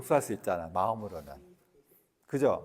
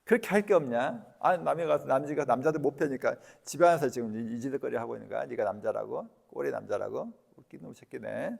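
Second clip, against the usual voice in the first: mocking contempt. Shown as a demonstration. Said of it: "이렇게 하면서 하라고".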